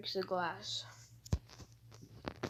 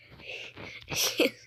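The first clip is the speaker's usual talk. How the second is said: breathy laugh. Real, not acted. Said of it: "I can't stop laughing".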